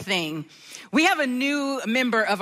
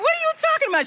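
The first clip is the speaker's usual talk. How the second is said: much higher, stretched out in mock offense; mock-offended young mother; indignant disbelief; much faster than usual. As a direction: play your younger self, baffled. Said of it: "And I was like".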